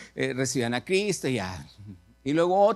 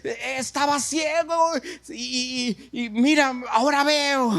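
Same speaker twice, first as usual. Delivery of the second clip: amazed testimony; 9 semitones higher than usual. Acted. Healed blind man telling the girl he sees, amazed. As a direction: marvel breathlessly at being able to see.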